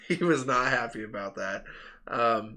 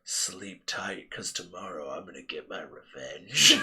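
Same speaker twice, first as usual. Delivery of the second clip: threatening; 7 semitones lower, 3 dB quieter, slower than usual. Retold or imitated. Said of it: "And he goes".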